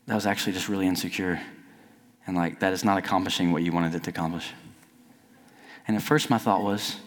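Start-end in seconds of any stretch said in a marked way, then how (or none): 0.1-4.5 soft, quick, understated correction; not demeaning. Retold or imitated. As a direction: quote a brother's gentle, low-key rebuke. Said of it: "he didn't say it in, like, a demeaning way".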